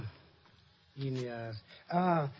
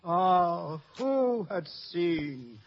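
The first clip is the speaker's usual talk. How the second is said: stagey fake archaic declaiming; 4 semitones lower than usual. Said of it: "tears in his eyes".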